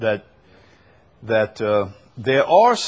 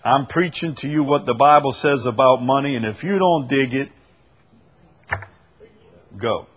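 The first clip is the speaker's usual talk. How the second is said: mock preacher; 4 dB louder than usual. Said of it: "and says".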